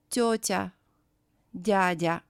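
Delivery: "тётя, дядя" each ending in a clear ya; careful TYO-tya, DYA-dya for "тётя, дядя"; final Я kept. Shown as a demonstration. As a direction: model тётя and дядя with the last vowel as Я. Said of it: "it is read as Я".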